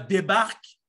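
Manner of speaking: loud, slow mock order; play-acted exasperation, loud and drawn out; exasperated nagging. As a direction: draw out the command as a fed-up Québécois partner. Voicing annoyed Quebec partner.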